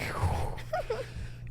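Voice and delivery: soft, high shuddering exhale; emotional sigh. Real, not acted. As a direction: let out a sigh as if welling up. Welling up recalling the wedding.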